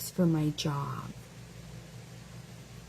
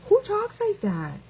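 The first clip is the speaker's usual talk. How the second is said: much higher, disbelieving squeak; can't believe what she read; incredulous; 13 semitones higher than usual. Real, not acted. Scoffing at the commenter's wording, incredulous.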